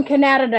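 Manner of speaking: "Canada" with the stress shifted onto NAD; playful mispronunciation. Real, not acted. Co-host introducing a caller, "Canada" said oddly as kuh-NAD-uh-duh. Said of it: "Why do you say Canada?".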